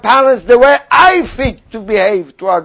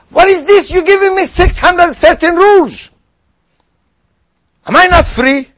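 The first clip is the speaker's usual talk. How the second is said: a hint of an indignant skeptic, pitched higher on the peaks; lightly voiced scoffing doubter, rising to a higher cry on "What is this?"; mocking skeptic; 3 semitones higher than usual. Preacher voicing a doubter who mocks the mitzvot, indignant and higher.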